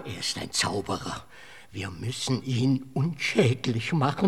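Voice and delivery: hushed dread. Acted. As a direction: drop your voice in fearful secrecy. Fearful plotting in hush. (ängstlich gedämpft und tief)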